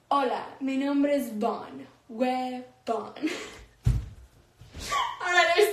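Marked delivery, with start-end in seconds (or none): 0.1-2.6 "Hola, mi nombre es Bon" said with flat English vowels; English-accented Spanish. Shown as a demonstration. Streamer showing chat the greeting in a thick English accent. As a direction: read "nombre" the English way, like "numbər". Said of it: "It goes like this".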